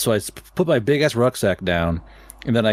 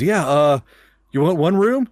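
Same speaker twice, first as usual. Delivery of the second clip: higher, hesitant clerk voice; lightly voiced awkward clerk; mock clerk; 5 semitones higher than usual. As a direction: clerk offering the bloody hiker a room.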